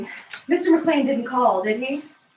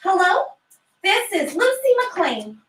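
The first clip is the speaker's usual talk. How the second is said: put-on a lightly raised, higher little-girl voice; a hint of a little girl picking up the phone; four-year-old girl; 6 semitones higher than usual. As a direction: play her as a proud small child answering the phone. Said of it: "a four-year-old girl, Lucy McLean".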